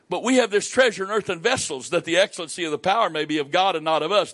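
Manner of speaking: fast, driving Bible reading; preacher reading from Paul; scripture reading. Real, not acted. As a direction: read the verse at speed.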